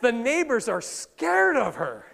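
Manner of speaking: laughing through it, slow; can barely hold the laugh; giggling while telling the joke. Real, not acted. Comic continuation while laughing.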